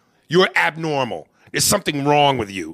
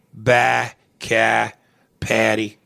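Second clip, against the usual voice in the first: Boston accent; 5 semitones lower, much slower than usual. Shown as a demonstration. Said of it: "they stretch their A's".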